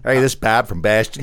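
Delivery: put-on half-hearted Boston accent, laughing through it; a caller putting on a Boston accent. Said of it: "I don't know how to do a Boston accent".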